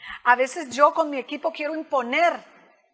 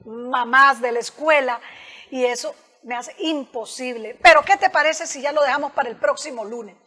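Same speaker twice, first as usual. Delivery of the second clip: polite assertive refusal. Shown as a demonstration. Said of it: "¿Cómo es?".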